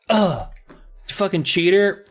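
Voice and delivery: annoyed sister. Retold or imitated. Sister to cheating brother, mock annoyed. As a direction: scold him as a cheater, hammed-up.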